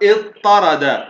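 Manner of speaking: اضطرد as iṭ-ṭarada, one long emphatic ṭ; merged double ṭa. Shown as a demonstration. Teacher gives the merged result, doubled ṭ in اضطرد. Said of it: "أدغمت الطاء الأولى في الطاء".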